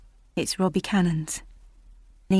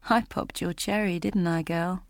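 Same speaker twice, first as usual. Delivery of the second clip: a hint of a sleazy man, softer and gloating; lightly voiced, quiet crude leer; leering Robbie; 4 dB quieter than usual. Robbie taunting Julia close up, softer sleazy gloat.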